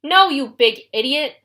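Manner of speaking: slow, loud furious shout; loud slow exasperated yell; bellow. Acted. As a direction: bellow the insult. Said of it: "bellowed Clarice".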